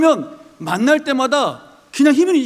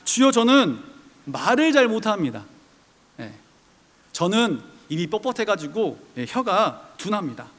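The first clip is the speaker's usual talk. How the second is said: polite and meek; 4 semitones lower, 4 dB quieter than usual. Pretend. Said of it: "아주 고상하게".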